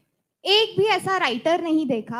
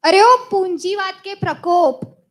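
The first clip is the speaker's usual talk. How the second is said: calling out; 4 semitones higher, 6 dB louder than usual. Acted. Calls after leaving date.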